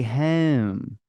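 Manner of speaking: "home" very slow, Baltimore O fronted towards "hem"; Baltimore long O. Shown as a demonstration. Showing off the local accent, slow Baltimore long O. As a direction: draw out the Baltimore vowel in "home". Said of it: "it's just the long O".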